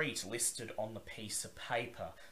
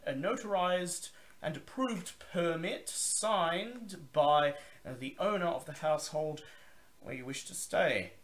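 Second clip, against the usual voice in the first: higher, louder gruff gatekeeper; gruff male voice; 9 semitones higher, 6 dB louder than usual. Acted. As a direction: bark it like a gruff guard. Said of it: "the voice says".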